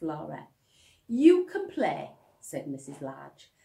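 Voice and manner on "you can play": firm mother. Acted. Mother sending kids away.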